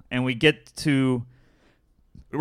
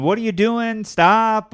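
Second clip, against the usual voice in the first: high, raised-voice angry protest; imitated yelling; 9 semitones higher, 4 dB louder than usual. Imitating the men behind yelling at her, angry protest. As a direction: imitate indignant men telling someone off. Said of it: "men that are yelling at her".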